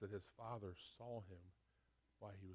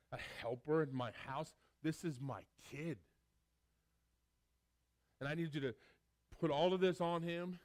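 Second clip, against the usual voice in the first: loud, urgent commands to the servants; the overjoyed father celebrating his son; father giving orders with rising excitement; joyful father's orders; 6 dB louder than usual. Acted.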